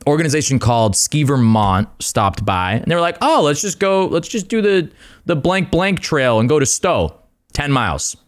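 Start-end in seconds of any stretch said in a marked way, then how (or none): 3.2-7.2 mock eager suggestion. Mocking the Ski Vermont people.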